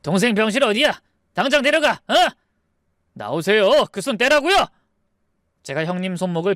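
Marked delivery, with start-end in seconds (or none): 0.0-2.1 high, bullying demand; angry demand. Acted. Brothers demanding their sister's hospital room, angry. 3.1-4.7 forceful, rising order; angry command. Acted. Husband telling brother-in-law to let go, angry. Narrator breaks free of brothers' grip.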